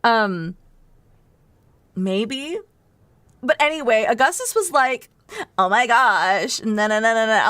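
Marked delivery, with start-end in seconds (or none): 5.6-7.5 mock Valley Girl. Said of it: "like, Valley Girl-esque".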